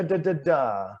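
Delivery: "da, da, da" tapped with the tongue; consonant drill. Shown as a demonstration. Coach drilling tongue sounds, crisp. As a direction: tap out each "da". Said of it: "into the mouth a little bit with da".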